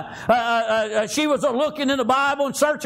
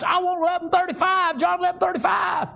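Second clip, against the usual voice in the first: put-on eager kids calling out; 5 semitones higher than usual. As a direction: call out like a schoolkid begging to be picked. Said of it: "every one of us throw up our hands".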